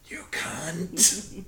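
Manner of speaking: under the breath; a whispered curse; whispered insult. Retold or imitated. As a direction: mutter it unheard. Retold insult muttered under breath.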